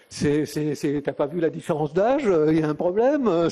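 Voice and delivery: put-on a laughing take on the young woman's wary thought; laughing mock challenge. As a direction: play her defensive reaction with a laugh. Retells the woman's silent reaction.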